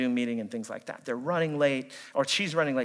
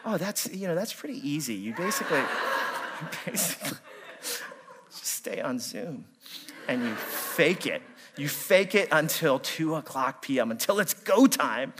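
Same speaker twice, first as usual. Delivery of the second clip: laughing mock advice. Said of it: "I'm like".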